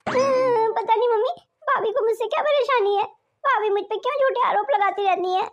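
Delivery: put-on weepy complaint to mother; fake tearful whining. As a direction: whine as if on the verge of tears. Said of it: "तू ऐसे रो क्यों रही है".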